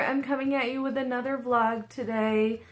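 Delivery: talking while chewing gum; chatty, with gum in the mouth. Real, not acted. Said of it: "sorry, I'm chewing gum".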